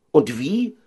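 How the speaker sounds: high-pitched wail of disbelief; lamenting. Acted. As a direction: complain in a lifted voice. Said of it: "klagten sie alle".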